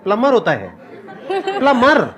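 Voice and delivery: "प्लम्बर" repeated as plummer, B dropped; silent B. Shown as a demonstration. Trying out the corrected word, silent B. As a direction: try "प्लम्बर" without any B sound. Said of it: "बी silent है".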